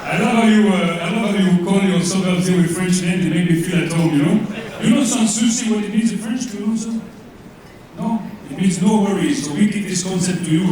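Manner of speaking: put-on thick comic French accent, vowels and r's Frenchified; fake French accent. Comedian as French coach Jean-Pierre thanks host, in mock French accent. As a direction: play an over-the-top Frenchman mangling English. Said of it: "you can probably tell from my accent".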